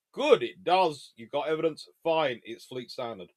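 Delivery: loud, slow, grand official approval; pompous Admiralty voice. Retold or imitated. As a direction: boom it out like a stuffy admiral. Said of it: "The Admiralty would go".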